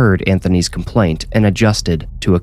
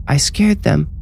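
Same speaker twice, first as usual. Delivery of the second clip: put-on small boy voice; 9 semitones higher than usual. Young boy speaking.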